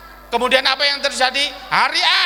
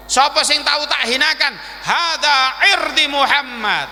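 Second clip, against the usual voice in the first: raised, higher declamatory voice; acted solemn proclamation; solemn public challenge; 5 semitones higher than usual. Prophet invites redress before crowd.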